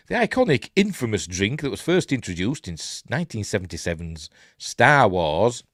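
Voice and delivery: lively, lilting news read; article read aloud. Acted. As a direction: read the story out like a light news item.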